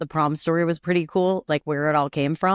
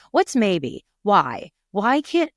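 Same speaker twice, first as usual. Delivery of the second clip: exasperated parent; 4 semitones higher, 4 dB louder, slower than usual. Retold or imitated. Retold parent interrogating vague teen.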